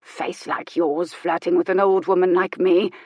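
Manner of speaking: snorting. Acted. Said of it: "she snorted".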